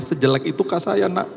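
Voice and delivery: acted pained disbelief; mock wounded. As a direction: plead in comic self-pity. Comic hurt reaction in his head.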